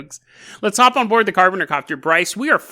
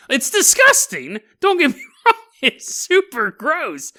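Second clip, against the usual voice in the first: grossed out; 9 semitones higher than usual. Real, not acted. Reacting to gross joke.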